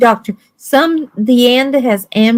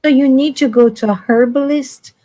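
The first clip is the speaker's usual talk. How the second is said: raised insistent; 5 semitones higher than usual. Real, not acted. Raising voice insisting.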